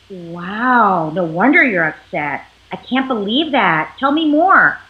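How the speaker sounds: low, gentle sympathy; empathic joining. Pretend. Partner welcomes angry spouse home, gently sympathetic. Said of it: "who's joining you".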